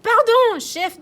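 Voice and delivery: high loud burst of apology; postwoman apologizing. Acted. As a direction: postwoman sorry, crashing in. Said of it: "dit la postière". (la factrice s'excuse, aiguë)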